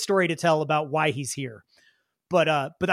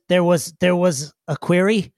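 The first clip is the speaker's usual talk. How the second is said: lightly voiced halting creature; stumble, having lost the thread; a touch confused and formal; confused digger. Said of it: "he says".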